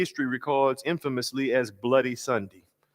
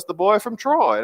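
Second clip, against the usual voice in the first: much higher and louder, proud; John Lewis voice; 9 semitones higher, 5 dB louder than usual. Retold or imitated. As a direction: call it out like a fond nickname. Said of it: "my attempt to do his voice".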